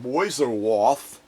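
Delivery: Mäuseroth slowly, playful, rising at the end; savoring the word. Shown as a demonstration. Savoring Mäuseroth slowly as a playful aside. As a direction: roll Mäuseroth out slowly for fun. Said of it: "It's kinda fun to even say".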